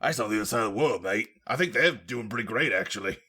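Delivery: bad British accent. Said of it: "a really bad Jason Statham impression".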